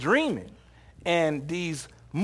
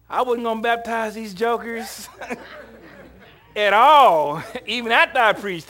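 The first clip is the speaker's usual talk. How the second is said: high and loud, bursting into laughter; real laughter mid-sentence; laughing; 7 semitones higher, 8 dB louder than usual. Real, not acted. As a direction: laugh while voicing Peter's reluctance. Paraphrasing Peter, laughing.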